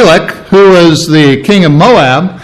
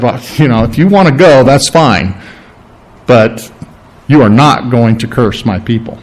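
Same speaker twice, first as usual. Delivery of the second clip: low, measured voice of God; God warning; 5 semitones lower than usual. Retold or imitated. God lets Balaam go but warns him, low and grave. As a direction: grant permission, then draw the line.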